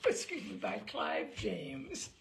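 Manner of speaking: laughing through the words after a slip; breaking into a laugh while reading the credit; flustered laugh. Real, not acted. Narrator to listeners, laughing after a stumble. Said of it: "That really threw me".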